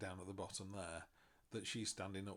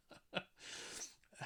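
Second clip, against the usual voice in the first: self-mocking laugh; 3 dB quieter than usual. Real, not acted. Laughs at own arrogance.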